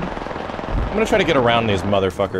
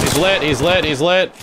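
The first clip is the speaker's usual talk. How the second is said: excited callout; 5 semitones higher than usual. Real, not acted. Calling out a hit enemy.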